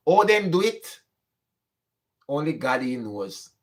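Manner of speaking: usual speaking voice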